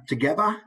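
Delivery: "together" said as "togevva"; Cockney "together" with a V in the middle. Shown as a demonstration. Teacher shows Cockney sounds, V for TH. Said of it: "the V instead of an F".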